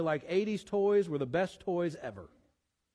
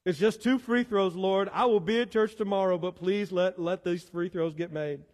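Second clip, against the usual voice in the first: mock desperate bargaining, louder at first; begging prayer; 2 semitones higher, 4 dB louder than usual. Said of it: "I am begging you".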